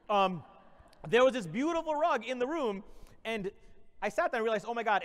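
mock-inspirational keynote voice; motivational speech. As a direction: address the crowd like a conference speaker.

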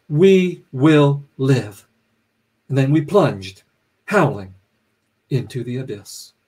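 measured public reading with weighted pauses between items; literary reading. A narrator's reading. Author reading the novel to an audience, measured and deliberate. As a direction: read it out deliberately, each phrase set apart.

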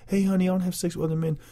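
mock wife. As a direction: rattle it off as the wife. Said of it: "let my damn future wife talk about".

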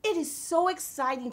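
high, loud, slow gushing delight; thrilled. Real, not acted. Reader gushes to listeners about the book, high and loud. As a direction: gasp and gush over the book.

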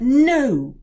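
high, loud No; cry out. A narrator's reading. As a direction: cry out to stop father. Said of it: "Ellie cried".

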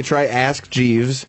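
slowed right down; slow emphatic repeat. Shown as a demonstration. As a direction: spell it out slowly for him. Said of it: "Yeah, try".

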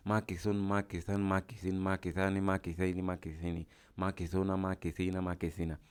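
even, rhythmic run of word forms; paradigm recitation. Shown as a demonstration. Teacher demonstrates fitting a hard word into the pattern, paradigm recitation. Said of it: "এভাবে টানবো".

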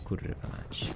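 voiceless, under the breath; whispered curse. Real, not acted. Streamer curses to himself going on, whispered. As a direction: swear to yourself in a whisper. Muttered curse while moving on.

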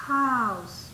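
HOUSE opening on a Spanish J sound; h como jota. Shown as a demonstration. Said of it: "es con una J". (house con la h como jota)

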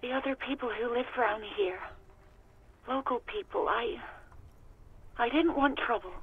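lightly weary, giving up; a hint of tired resignation; resigned and weak. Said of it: "Her voice is resigned and weak".

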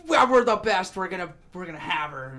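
a loud, high, cocky brag; mock boastful invader. Retelling the invading kingdom's boast, hammed-up cocky brag. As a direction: ham up the arrogant prince. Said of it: "He's like".

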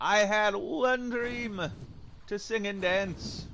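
mock tragic lament. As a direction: grieve like a soap opera villain. Mock tragic lament over dead dino.

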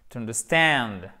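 understand with stress on stand and a short a. Shown as a demonstration. Teacher models word stress for learners, stress on stand. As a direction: lean on the last syllable of understand. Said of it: "Accent tonique ici avec un A court".

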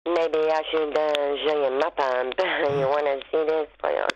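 put-on French accent; role-play a lad with a French accent. Partner flirting as French gym lad, French accent. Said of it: "could role play as a lad?".

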